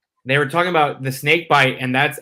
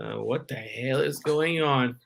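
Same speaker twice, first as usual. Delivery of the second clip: put-on scared kid; 2 semitones lower, 9 dB quieter, slower than usual. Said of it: "and you're just like".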